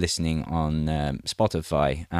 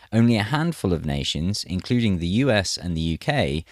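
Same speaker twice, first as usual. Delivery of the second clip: measured news-reading delivery; article read aloud. Acted.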